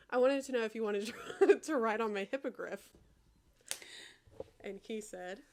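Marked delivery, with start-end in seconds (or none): 0.1-2.9 laughing while reading. Real, not acted. Cracks up reading own line.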